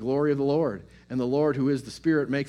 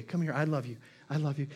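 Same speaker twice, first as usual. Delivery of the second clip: God comforting; 2 semitones higher, faster than usual. Retold or imitated. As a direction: comfort a worried child gently. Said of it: "he's gonna say".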